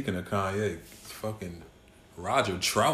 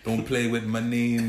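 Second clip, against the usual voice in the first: put-on rapper-style Toronto accent, slow; slower than usual. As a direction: tough Toronto slang accent. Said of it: "with the Toronto, uh, accent?".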